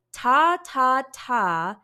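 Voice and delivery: "Ta, ta, ta" with a loud, crisp T; T-sound demo. Shown as a demonstration. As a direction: release each "ta" with a burst of air. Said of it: "Let's do it again".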